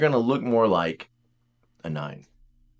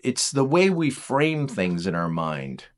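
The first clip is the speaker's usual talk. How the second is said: usual speaking voice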